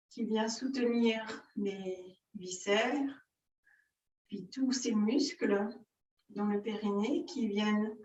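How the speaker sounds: measured yoga-teacher guidance with long pauses; unhurried breathing-exercise guidance; guided yoga instruction. Real, not acted. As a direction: lead the breathing exercise phrase by phrase, drawing out the key words.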